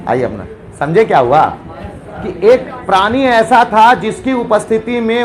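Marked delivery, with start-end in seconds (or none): 0.1-0.5 mock gentle, sweet offering voice; a bully suddenly playing the kind host; very calmly. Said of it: "एकदम आराम से बोल रहा है". (बहुत आराम से, बनावटी मीठी आवाज़ में)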